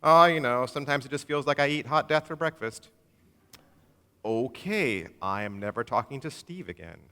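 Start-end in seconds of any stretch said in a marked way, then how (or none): 0.0-2.9 casual, shrugging delivery of grim words; offhand gloom. Retold or imitated. Steve answering a greeting, breezily bleak. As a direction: toss it off like small talk. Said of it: "Hey, how's it going, Steve?".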